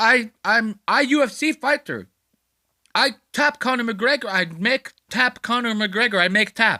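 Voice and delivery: high, slow, halting broken English. Retelling a fighter arguing with flight crew: imitating broken English.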